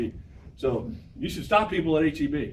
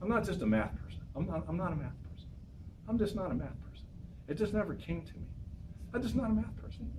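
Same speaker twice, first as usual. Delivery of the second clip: higher, softer whiny I'm-not-a-math-person voice; whiny student; 6 semitones higher, 8 dB quieter than usual. Retold or imitated. Teacher mimics a student avoiding math, higher, softer whine. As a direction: imitate a student excusing themselves, higher and softer. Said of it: "anybody that you know say".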